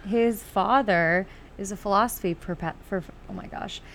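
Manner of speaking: half-numb face, stumbling on words; numb mouth. Real, not acted. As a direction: talk through a numb mouth. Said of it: "Half of my face is numb".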